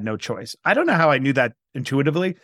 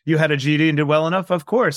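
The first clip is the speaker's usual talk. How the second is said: noblesse oblige; 3 semitones higher than usual. Retold or imitated. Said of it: "a noblesse oblige kind of way".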